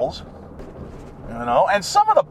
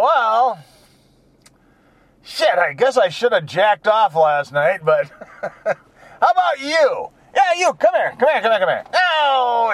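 mock horny come-on; 3 semitones higher than usual. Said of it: "I'd go".

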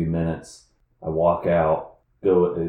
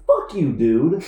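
loud, high defiant yell; staged anger; 8 semitones higher, 6 dB louder, slower than usual. Retold or imitated. Employee faking a fight with manager, angry yell. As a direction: fire back for the onlookers.

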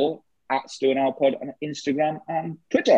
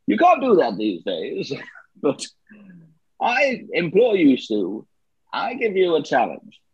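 Roger Moore impression. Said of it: "Bloody Roger Moore".

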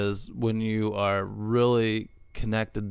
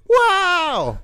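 very high squeaky mock "Wow"; silly ghost catchphrase, hammed-up; ghost yell again; 5 dB louder than usual. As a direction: echo the goofy ghost, pitched way up.

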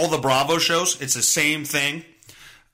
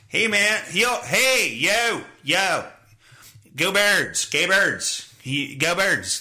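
put-on Philly accent; much slower than usual. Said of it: "Fucking dumbass accent".

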